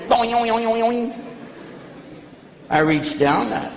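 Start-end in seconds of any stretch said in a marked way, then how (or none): 0.1-1.2 boinging cable noise. Retold or imitated. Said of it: "he went".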